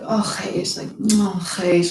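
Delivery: a touch of tender ache; heart-touched sigh. Shown as a demonstration. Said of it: "that thing that breaks your heart".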